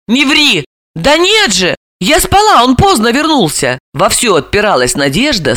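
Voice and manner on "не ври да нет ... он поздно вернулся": heated denial. A narrator's reading. Ссора сестёр.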